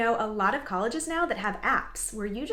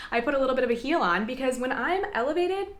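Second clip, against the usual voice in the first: giggly confession about the heels; playful laughing; 4 semitones higher, 4 dB louder than usual. Real, not acted. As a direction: laugh through the joke.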